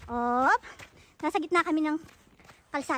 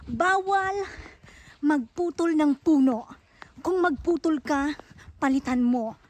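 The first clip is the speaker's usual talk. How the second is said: louder, slow firm warning about cutting trees; stern loud scolding; 4 dB louder, slower than usual. Acted. Vlogger scolding illegal loggers in the forest, loud and stern. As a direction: lay down the rule like a scolding teacher.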